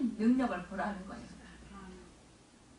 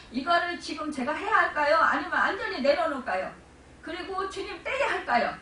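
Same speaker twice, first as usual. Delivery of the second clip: pleading prayer question; 6 semitones higher, 6 dB louder than usual. Retold or imitated. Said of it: "주님한테 기도를 하는 거예요".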